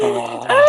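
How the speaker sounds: high drawn-out sigh; exasperated sigh. Pretend. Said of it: "a long exacerbated sigh".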